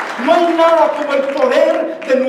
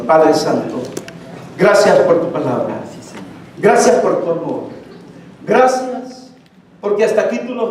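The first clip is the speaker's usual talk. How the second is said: lower, reverent prayer voice; closing prayer; 3 semitones lower than usual. Acted. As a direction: pray it aloud for the congregation. Pastor leads closing prayer.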